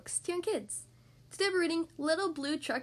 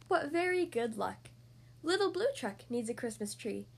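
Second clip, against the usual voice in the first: lively picture-book read-aloud; reading to children; slower than usual. Acted. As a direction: read it like bedtime story time. Reads picture book to kids.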